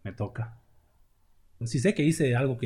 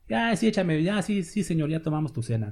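mock tipsy carelessness; 2 semitones higher than usual. Drunk Corinthians mocked.

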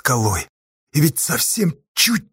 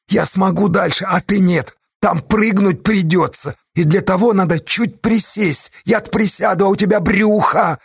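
earnest plea; 4 semitones higher than usual. Acted. Pleading with friend to stay.

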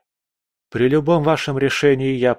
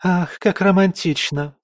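put-on high, gushing girlish voice, pitched well up; swooning young lady; 9 semitones higher than usual. A narrator's reading. Court girl gushes at the duke's love story, high and swooning. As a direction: sigh it out like a starry-eyed court girl. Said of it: "всплеснула руками одна из девиц".

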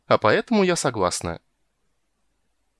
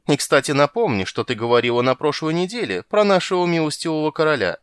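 much higher, louder tattling rat; a rat stirring up trouble; sly squeaky rat; 6 semitones higher, 5 dB louder than usual. Acted.

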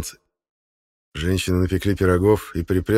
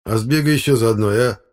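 coaxing request, pitch raised; pleading; 4 semitones higher, 5 dB louder than usual. Acted. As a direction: wheedle a favour from a mate. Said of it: "просительно сказал электрик". (просительно)

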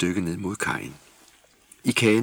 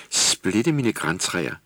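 put-on slow, drawn-out old salt exclamation; mock sailor's oath; much slower than usual. Skipper elf staring at the reindeer, slow amazed oath. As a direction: marvel like a gruff old sailor. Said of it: "skipper's oath".

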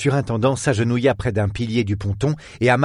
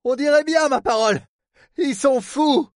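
high, exclaiming harbour man; astonished superintendent. Acted. Port man spots the boat in the storm, astonished. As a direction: exclaim in disbelief at the sight.

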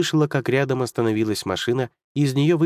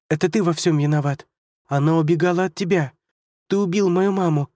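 hysterical accusation; 7 semitones higher than usual. Acted. Girl screams at Hunter who killed her mother, hysterical. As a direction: hurl the blame at him. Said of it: "В истерике она выкрикнула".

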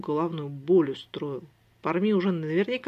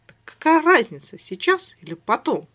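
teasing shout; 7 semitones higher, 10 dB louder than usual. Acted. Brother teasing the girl.

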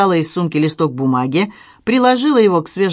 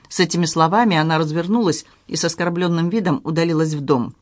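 plain reading voice

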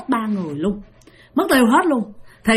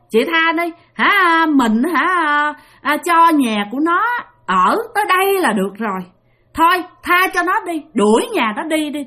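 lightly voiced ghost woman begging a bit higher; pleading ghost; 4 semitones higher than usual. Two ghosts plead with elder. (giọng ma nữ năn nỉ nhẹ nhàng)

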